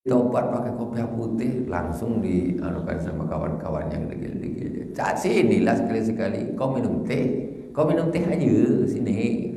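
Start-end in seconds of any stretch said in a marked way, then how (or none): 5.0-9.5 coaxing friend. Retold or imitated. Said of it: "kata dia".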